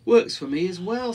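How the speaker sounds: high, loud, cheery aardvark; lightly voiced genial aardvark; smiling. A narrator's reading. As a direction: say it through a smile. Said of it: "smiled the aardvark".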